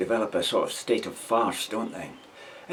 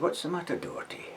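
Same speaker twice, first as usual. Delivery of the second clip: sergeant asking; 8 semitones higher, 8 dB quieter than usual. Retold or imitated. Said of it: "the sergeant said".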